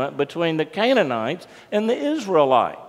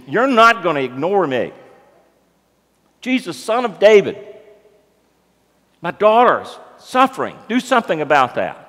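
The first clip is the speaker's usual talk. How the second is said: raised, insistent voice of a pleading mother; imitated insistent plea; persistent demand; 2 semitones higher, 3 dB louder than usual. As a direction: press the demand, acting it out. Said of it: "The woman is persistent".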